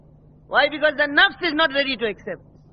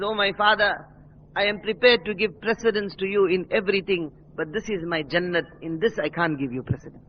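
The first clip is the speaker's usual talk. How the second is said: hushed pleading son; 8 semitones lower, 5 dB quieter than usual. Acted. Son pleads with father, quietly.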